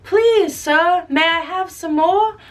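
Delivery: a hint of a timid child; polite orphan. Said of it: "some people remember it".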